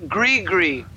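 "Gree-gree" with a hard G starting each half. Shown as a demonstration. Correcting a friend who says Riri, "Gree-gree" with hard Gs. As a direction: sound both Gs clearly in "Gree-gree". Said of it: "Gree-g with a G".

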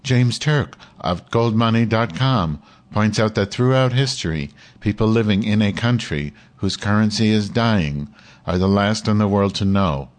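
lightly imitated computer read-aloud voice. Shown as a demonstration. Streamer copying the computer to get through the text, mock computer reading. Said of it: "I'll try to read like the computer".

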